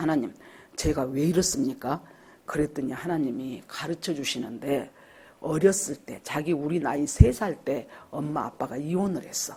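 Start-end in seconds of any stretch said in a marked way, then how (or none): 0.0-2.0 soft, low, quiet voice. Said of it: "하나님 앞에 조용히 물어봤어".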